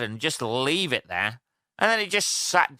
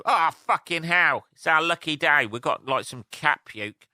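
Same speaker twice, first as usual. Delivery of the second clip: excited ants; 4 semitones higher than usual. Pretend. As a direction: ham up the ants' joy at a lucky find. Ants voiced finding cat puke.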